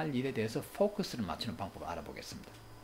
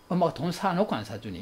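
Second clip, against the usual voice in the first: mock-angry parent, slightly raised and louder; angry retort; 3 semitones higher, 5 dB louder than usual. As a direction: snap back at a child's request. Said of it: "이런 분노의 대답". (화난 엄마처럼 쏘아붙이듯)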